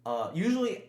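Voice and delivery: chewing ice while talking; mouth full. Real, not acted. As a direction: talk through a mouthful of ice. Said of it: "sorry, I'm chewing on ice".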